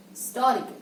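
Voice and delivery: Historical as 'STOR-ical', first syllable swallowed; correct pronunciation. Shown as a demonstration. Teacher repeats the correction, modelled pronunciation. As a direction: lean on TOR in Historical, the H dropped. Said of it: "It is historical".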